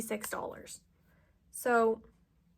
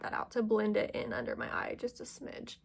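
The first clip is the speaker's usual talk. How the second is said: whispering; 5 dB quieter than usual. Real, not acted. Quiet concentration while blending.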